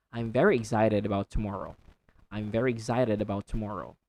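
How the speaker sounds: quick egg-zited in excited; American pronunciation. Shown as a demonstration. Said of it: "American accent, you say".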